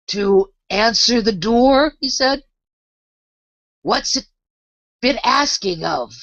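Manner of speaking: slow, dull drawling frog. A narrator's reading. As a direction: drag every word out lazily. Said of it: "the slow drawl in which he spoke".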